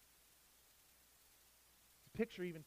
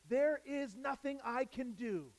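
slow, higher, understated helplessness; terror; 5 semitones higher, slower than usual. Acted. Preacher voices the psalmist's helpless realization, mildly terrified. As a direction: realize it slowly, with a touch of dread. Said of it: "of terror".

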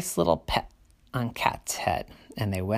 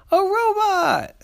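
slow, very high amazed cry; big sister voice; 7 dB louder, slower than usual. Acted. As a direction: draw out the delighted cry. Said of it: "the big sister said".

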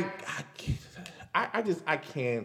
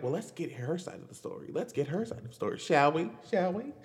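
mock smooth host; 7 dB quieter, faster than usual. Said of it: "and be like".

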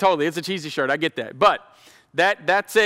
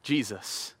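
gentle advocate; 3 dB quieter than usual. Acted. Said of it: "our advocate is saying".

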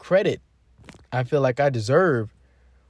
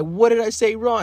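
higher, a bit louder, genuinely confused; baffled protest; 9 semitones higher, 4 dB louder than usual. Retold or imitated. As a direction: ask it like you truly don't get it. His own confused reply voiced.

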